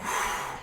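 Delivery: voiceless rush of breath; imitated bong hit. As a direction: mime a hit with breath alone. Acting out first bong hit.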